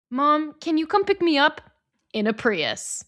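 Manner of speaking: put-on high, pleading kid voice; quoted pleading line. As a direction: ask mom for a ride, pleading. Quoting nominated line.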